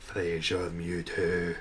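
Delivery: slow, drawn-out announcement of Fraser Mewtwo; mock grand announcer. Shown as a demonstration. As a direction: announce it like a movie trailer. Repeats the name for effect.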